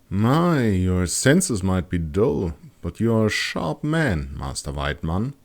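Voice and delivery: teasing, slowed mock flattery; a touch of playful mockery; playfully mocking. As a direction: tease him gently with lightly mocking praise. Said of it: "in a playfully mocking tone".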